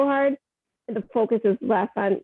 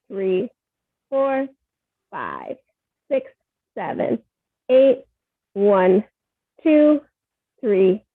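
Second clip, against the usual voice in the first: counting the beat for dancers; steady class count, punchy on eight; stern rhythmic counting; slower than usual. Shown as a demonstration. Teacher counting ballet exercise.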